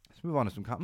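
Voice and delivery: hoarse, voice cracking mid-phrase; voice catching. Real, not acted. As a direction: catch in the throat, voice failing. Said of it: "I've got, like, a little catch in my throat".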